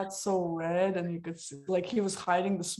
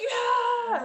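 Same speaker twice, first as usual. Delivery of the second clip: high, loud, laughing whoop; cheering yell; 5 dB louder than usual. Retold or imitated. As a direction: cheer him on loudly. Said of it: "And I was like".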